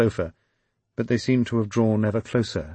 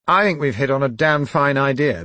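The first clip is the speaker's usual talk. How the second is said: pleased with himself; 6 semitones higher, 8 dB louder than usual. Acted. Quillington enthused.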